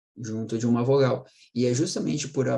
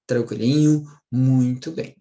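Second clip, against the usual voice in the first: louder, upbeat teacher praise; cheerful check-in; 6 dB louder than usual. Real, not acted. Teacher to students, louder cheerful check-in. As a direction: brightly ask if it is all clear. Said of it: "cheerful teacher check-in".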